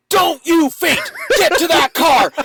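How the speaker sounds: high, loud, slow command, a wife in warrior mode; commanding shout. Retold or imitated. Wife shouting at her fainting husband to get to the car, loud high commanding yell. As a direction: bark the order so he stays on his feet. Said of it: "she goes into what we call her warrior mode".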